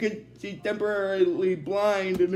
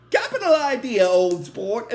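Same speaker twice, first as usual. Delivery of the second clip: put-on British accent; 3 dB louder than usual. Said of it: "he's talking in a British accent".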